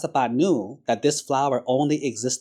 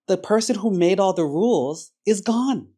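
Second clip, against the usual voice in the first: loud and much higher, gloating that the rules are gone; a brash monk exulting to the crying brothers, loud and high; gleeful rebel monk; 3 semitones higher, 4 dB louder than usual. Retold or imitated. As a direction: crow with wild joy at new freedom. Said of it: "who said to his friends".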